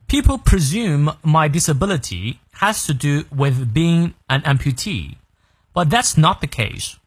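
slow, clear read-through for learners; slow model reading. Shown as a demonstration. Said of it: "从到尾我们来过两遍".

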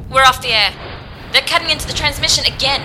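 alarmed. Acted. Feed cut again.

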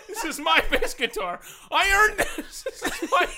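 loud high laughing shout, stress on my; possessive yell. Retold or imitated. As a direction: shout it like a teen guarding his treasure. Teen guarding his guitar.

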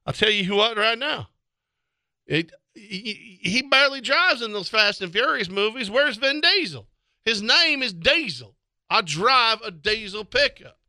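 hammed-up hick voice; hick fan rant. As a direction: rant at The Rock like a race fan. Redneck fan rant continues.

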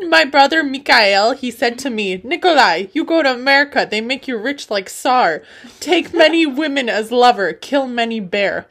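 put-on loud, comic Russian accent. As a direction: declaim it loudly in Russian-accented English. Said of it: "said that all in an accent".

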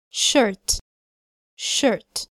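shirt with lips rounded a little; rounded vowel. Shown as a demonstration. Teacher drilling shirt with rounded lips. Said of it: "بنضم فيها الشفتين شوية".

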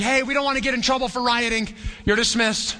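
high-pitched call to a crowd; mock official dismissal. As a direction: lightly act out a clerk sending everyone away. Acting out the clerk dismissing the crowd.

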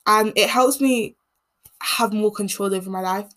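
ordinary talk, nothing marked

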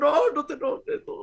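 mock pleading. Mock pleading with angry ghost.

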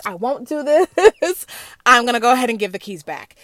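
laughing refusal. Retold or imitated. Telling her friend she is quitting, laughing protest. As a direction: retell your refusal, laughing through it.

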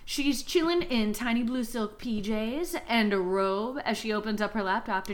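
measured, deliberate storyteller delivery; story recap narration. A narrator's reading. Host recapping the book for co-hosts, measured narration. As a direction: recount the plot, lingering on key phrases. Retells the book's plot.

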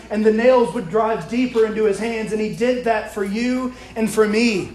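preaching. Real, not acted. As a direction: drive each point home to the congregation. Preaches the crucifixion with force.

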